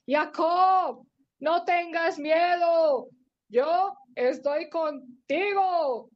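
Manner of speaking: slow, long-drawn gentle call; singsong reassurance, very slow; sweet heavenly voice. Acted. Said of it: "una voz dulce desde arriba".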